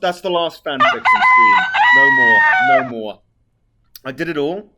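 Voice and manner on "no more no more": very high squeak of joy; squeaky voice. Pretend. Streamer squealing in a cartoon-high voice over finishing.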